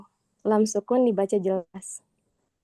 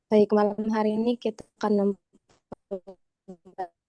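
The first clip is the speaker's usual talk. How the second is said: voice breaking up; faster than usual. Real, not acted. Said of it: "Suaranya putus-putus lagi di tempat aku".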